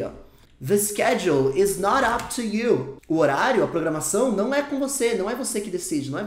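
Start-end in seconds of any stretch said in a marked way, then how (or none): 0.7-3.0 "not" punched in a slow, loud sentence; stress on not. Shown as a demonstration. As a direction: hit "not" hard and keep it slow. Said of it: "olha o not negando aqui". (ênfase forte no "not")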